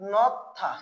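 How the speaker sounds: নথা with a held stop before aspirated থা; careful নথা, d turned to th; pronunciation model. Shown as a demonstration. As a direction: say নথা in two short beats. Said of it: "এই বর্ণটার উচ্চারণ হয়ে যাবে কি?".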